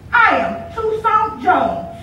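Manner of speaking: slow, chest-out declaration; a touch of swagger, words spaced; boy insisting on his name to the girl; lightly voiced boasting boy.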